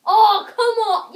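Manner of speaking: high laughing "oh come on"; loud amused outcry; laughing protest. Real, not acted. Laughing protest at movie guess.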